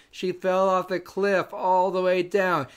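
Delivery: slow, detached voice of the dad; deadpan dad line. Retold or imitated. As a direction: drag it out, oddly calm. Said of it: "He goes".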